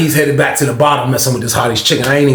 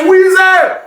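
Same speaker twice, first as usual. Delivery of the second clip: high, loud holler of a name; drawn-out, high-pitched yell; imitated calling out; 5 dB louder than usual. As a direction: call out for someone down the block. Somebody calls out to narrator.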